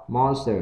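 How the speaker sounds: MONSTER with a short O vowel. Shown as a demonstration. Teacher drills monster for learners, short O. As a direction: open "monster" on a short O sound. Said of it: "short O đã đọc chữ O".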